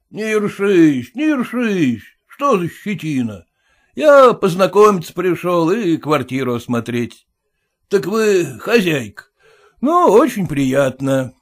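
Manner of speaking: blunt merchant scoffing at formality; gruff merchant. Acted. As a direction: push in like the owner. Merchant soothes mockingly.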